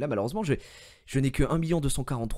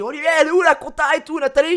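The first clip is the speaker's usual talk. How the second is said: fast, high and loud questioning; urgent loud demand; 12 dB louder, faster than usual. Retold or imitated. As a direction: rattle off the question, all worked up. Demanding answers from Olivier. (question pressante, rapide et forte)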